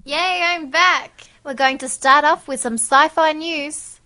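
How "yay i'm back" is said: excited. Real, not acted. Cheering return.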